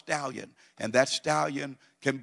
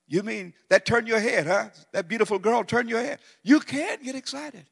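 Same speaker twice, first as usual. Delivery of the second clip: teasing; 9 semitones higher, 3 dB louder than usual. Acted. Teasing the congregation, high pitch.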